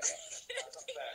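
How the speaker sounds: over-the-top sulky "not fair"; mock protest. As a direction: play the hard-done-by loser, slowly. Mock protest over skipped turn.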